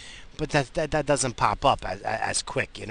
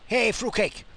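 high prank-call yell, strained; mock a crank caller shouting the line; imitating Lobo; 11 semitones higher, 3 dB louder than usual. Imitating Lobo's prank-call yell from Jerky Boys. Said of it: "I can just hear Lobo now".

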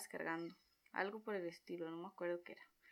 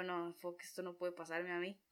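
panicked disbelief; 3 semitones lower, 8 dB quieter than usual. Retold or imitated. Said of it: "yo empiezo a paniquear".

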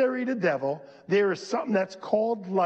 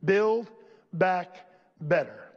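mocking quote; slower than usual. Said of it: "one of the statements they make".

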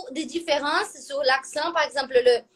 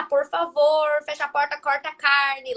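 regional Brazilian accent. Shown as a demonstration. Teacher imitating one region of Brazil, regional Brazilian accent. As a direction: demonstrate a Brazilian regional R on each word. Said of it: "uma região onde, comme ça".

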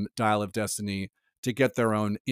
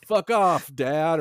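higher, louder hammed-up snarl at dad; mock yell; 4 semitones higher, 3 dB louder, much slower than usual. Imitating a Red Band trailer character, a mild mock yell. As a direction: spit it out like an angry teen in a trailer. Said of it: "turn around and go".

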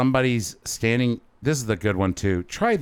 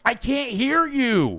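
slow mock shout; slower than usual. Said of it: "there's like just huge".

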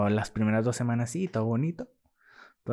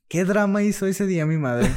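amused aside; 8 semitones higher, 6 dB louder than usual. Real, not acted. Joking aside about mom's drama.

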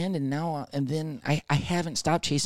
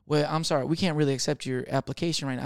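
put-on light Southern-accented rejection. Employer rejecting a job application, light Southern accent. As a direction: turn them down with a Southern twang. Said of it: "all my accents today are Southern".

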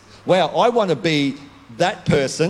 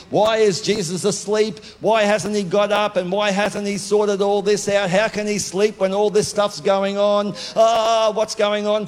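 higher, frantic questioning; panicked disciples; 5 semitones higher than usual. Retold or imitated. Disciples panicking to each other in the boat, higher and frantic. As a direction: voice the frightened disciples in the storm.

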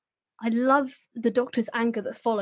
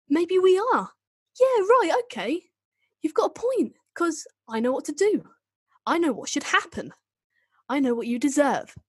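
higher, hammed-up Northern accent, turning cold; Northern Eccleston accent; 6 semitones higher than usual. Doctor threatens the Dalek in a hammed-up Northern accent. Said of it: "warm up my Eccleston accent".

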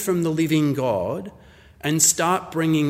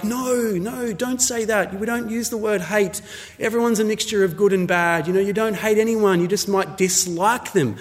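higher-pitched parent gently objecting; gentle parental correction; 5 semitones higher than usual. Acted. Parents to a son back from school, gently correcting.

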